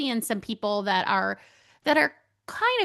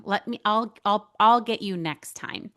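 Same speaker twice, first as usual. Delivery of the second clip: insistent deflecting; 4 dB louder than usual. Retold or imitated. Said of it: "I am the queen of saying".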